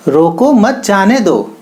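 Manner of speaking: slow, रोको set apart from मत जाने दो; pause after रोको. Shown as a demonstration. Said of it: "इस कॉमा को रोको के बाद".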